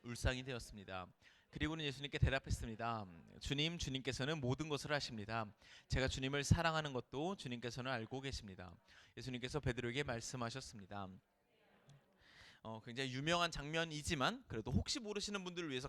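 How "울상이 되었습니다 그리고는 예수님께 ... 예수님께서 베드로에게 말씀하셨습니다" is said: low, soft Bible reading voice; hushed solemn reading of the Gospel; scripture reading. Acted. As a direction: read the passage gently and reverently. Reads the scripture passage aloud.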